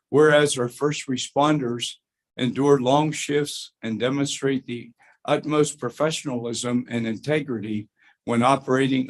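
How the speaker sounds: measured formal read of a board resolution. Acted. Board member reading the resolution aloud, formal read. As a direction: read it out like an official proclamation.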